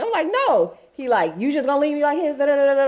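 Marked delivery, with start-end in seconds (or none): 0.3-0.8 sharp refusal. Retold or imitated. Flat refusal to ex. 1.4-2.9 whiny ex. Retold or imitated. Ex guilt-tripping her.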